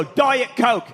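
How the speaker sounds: Diet Coke snapped as a bare order; mild mock of a star barking an order; curt demand. Comedian mimics a rock singer demanding a Diet Coke, curt. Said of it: "Mick Jagger would go like this".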